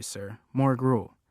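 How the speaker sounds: slow, drawn-out begging plea; begging Oliver Twist. Retold or imitated. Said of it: "he always goes".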